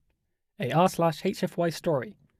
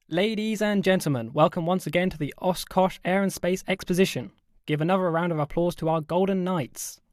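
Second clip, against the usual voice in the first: higher, ringing announcer voice; airshow announcer; 4 semitones higher than usual. Acted. Announcer welcomes crowd to air exposition, building hype. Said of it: "the announcer continued to build up the hype".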